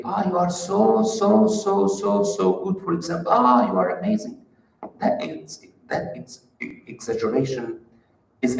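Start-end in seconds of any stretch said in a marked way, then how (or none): 0.0-2.8 put-on high, gushing praise to a child; exaggerated praise. Parent gushing praise at a child, pitched high and eager. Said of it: "we might exaggerate a bit". 3.3-4.4 put-on high, gushing praise to a child; exaggerated praise. Parent gushing praise at a child, pitched high and eager. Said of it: "we might exaggerate a bit".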